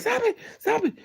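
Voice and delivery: very high squeaky mock plea; mock pleading boyfriend. Mocking her boyfriend begging her to stop hitting him, squeaky high plea. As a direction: squeal it like a man getting hit.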